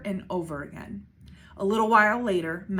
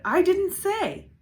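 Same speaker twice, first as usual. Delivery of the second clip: higher, slower insistent shout; slow shouted repeat; 11 semitones higher, 5 dB louder, slower than usual. A narrator's reading. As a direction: drag the denial out in protest.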